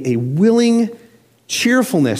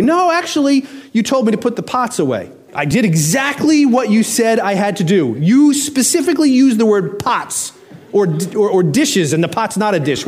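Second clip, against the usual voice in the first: a lightly voiced kid splitting hairs, higher at first; mock the kid's technical defence; arguing kid; 5 semitones higher than usual.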